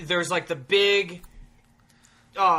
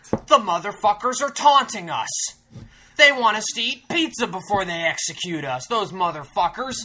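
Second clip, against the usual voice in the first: mock indignation, voice raised; retold outrage; 4 semitones higher, 4 dB louder than usual. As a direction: act out offended disbelief, easing off at the end. Retells his outraged first thought.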